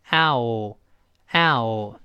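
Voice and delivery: ow drawn out, sliding from "ah" into "o"; gliding diphthong ow. Shown as a demonstration. Teacher shows learners the two-vowel glide, ow sliding ah to o. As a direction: start ow on "ah" and glide to "o". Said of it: "由啊滑到这个o".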